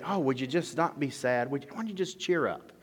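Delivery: high, airy "cheer up" brush-off; dismissive comforter. Retold or imitated. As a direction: sound breezy and unhelpful. Mocking unhelpful comforter.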